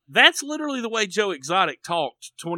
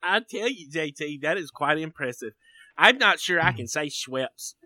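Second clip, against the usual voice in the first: put-on Southern accent; 3 semitones lower than usual. Host teasingly admires co-host's drink, Southern accent. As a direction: stretch it out as a comic Southerner. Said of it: "to change accents".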